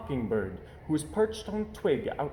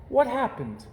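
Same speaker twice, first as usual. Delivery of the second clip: questioning mother; 11 semitones higher than usual. Acted. Mama questions cubs.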